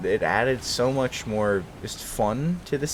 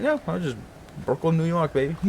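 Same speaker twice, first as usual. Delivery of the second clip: put-on Boston accent; 9 semitones higher than usual. Joking reply in put-on accent.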